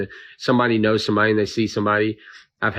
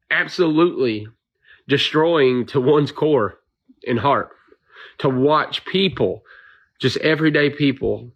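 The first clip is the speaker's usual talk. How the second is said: emotional, slowed. Real, not acted. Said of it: "I'm getting emotional about this".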